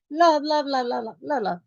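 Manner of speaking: soft, dismissive interruption; correcting husband. Retold or imitated. Husband stopping wife's country talk, soft correction. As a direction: lightly mimic a husband cutting her off. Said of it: "He would say to me".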